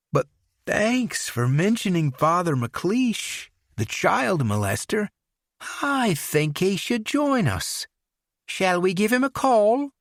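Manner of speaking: put-on playfully menacing English accent. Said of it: "lapsed into his English accent".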